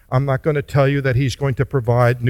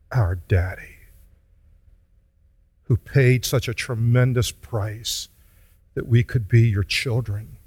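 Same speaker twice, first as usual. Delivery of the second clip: pastoral prayer. Acted. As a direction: pray gently on behalf of the congregation. Leads closing prayer.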